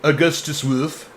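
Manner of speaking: slow, lightly Swedish accented name. Shown as a demonstration. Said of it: "that was a very Swedish accent".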